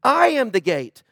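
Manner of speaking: "I am the gate" said deliberately, falling at the end; weight on "I", then settle down on "gate"; for emphasis. Retold or imitated. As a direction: repeat "I am the gate" as a firm point. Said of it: "for emphasis".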